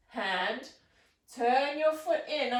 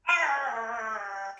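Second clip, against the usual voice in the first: pirate growl. Acted. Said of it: "I hope you sound really fierce".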